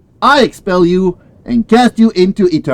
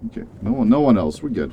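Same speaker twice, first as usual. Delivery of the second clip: muttered, much softer; quiet; 9 semitones lower, 8 dB quieter, faster than usual. Real, not acted. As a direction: mumble it to yourself. Muttering to self.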